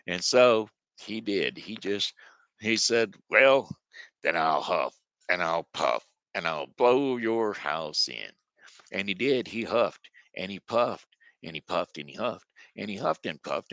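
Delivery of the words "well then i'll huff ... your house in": menacing wolf drawing out the threat; threatening wolf. Acted. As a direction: growl the threat like the big bad wolf. Wolf threatens brick house.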